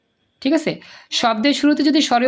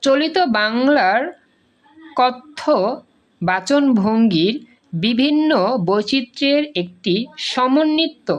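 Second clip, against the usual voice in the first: slow dictation; slower than usual. Shown as a demonstration. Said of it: "dictating the definition slowly".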